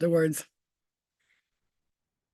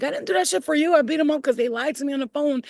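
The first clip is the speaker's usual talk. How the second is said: higher, louder snapping back; retold angry retort; 8 semitones higher, 3 dB louder, faster than usual. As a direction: throw it back at him, annoyed. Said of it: "I was like".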